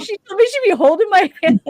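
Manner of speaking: high, loud, quick, through laughter; laughing protest. Real, not acted. Recalling a friend's broken promise, laughing protest. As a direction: crack up while complaining.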